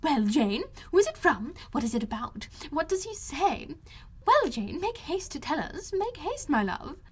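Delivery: high, loud, impatient calling; mother eagerly calling to her daughter. A narrator's reading. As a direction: urge Jane on, pitched high and eager. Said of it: "she was eagerly calling out".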